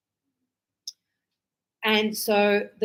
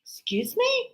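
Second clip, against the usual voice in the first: high, soft offended question; indignant excuse me; 13 semitones higher, 3 dB quieter than usual. Retold or imitated. Teacher answers the student's mate, high and offended. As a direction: raise the voice in disbelief. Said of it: "And I go".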